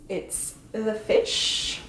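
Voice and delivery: slow soft whisper; whispered aside. Acted. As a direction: breathe it out as a deadpan aside. Deadpan aside about Pisces.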